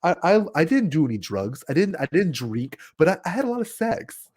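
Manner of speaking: a hint of a boastful rocker recalling the old days; rock singer impression. Fan imitates a rock singer from his audiobook, lightly voiced. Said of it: "He talks a lot like this".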